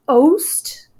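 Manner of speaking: "oast" as one syllable; two syllables squeezed into one "oast"; contracted pronunciation. Shown as a demonstration. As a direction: say "oast" with no separate second vowel. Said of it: "that's pronounced oast".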